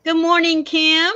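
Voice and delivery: cheerful greeting. Real, not acted. Greeting viewer warmly.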